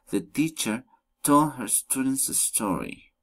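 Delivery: four clear beats, as in "She wants to buy a new car"; four stresses per statement. Shown as a demonstration. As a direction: stress the content words of "The teacher told her students a story". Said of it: "Statements with four stresses".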